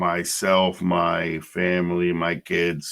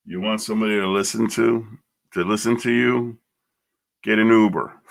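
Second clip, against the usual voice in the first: mocking retort; 4 semitones higher than usual. Mocking nurse retold.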